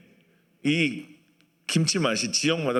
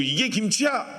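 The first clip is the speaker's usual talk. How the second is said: higher-pitched mock exclamation of disbelief; mock scoff; 7 semitones higher than usual. Gyeongsang person tasting Jeolla kimchi, mock scoffing exclamation. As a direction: toss it off like a doubtful local. Dismissive regional kimchi quote.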